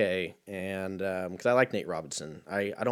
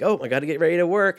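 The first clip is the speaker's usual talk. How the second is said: mock dazed self; 8 semitones higher, 8 dB louder, faster than usual. Dazed self after knockout.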